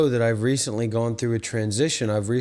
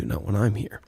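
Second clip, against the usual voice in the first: mock whisper; 4 semitones lower than usual. Mock critic boasting in an aside.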